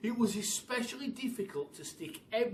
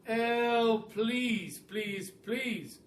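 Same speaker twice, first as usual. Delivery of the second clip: begging bird; 5 semitones higher, 5 dB louder, much slower than usual. A narrator's reading. Roly-poly bird begging.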